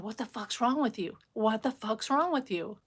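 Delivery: re-enacted angry challenge without shouting; retold rage. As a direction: replay telling someone off in anger. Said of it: "I was just in rage".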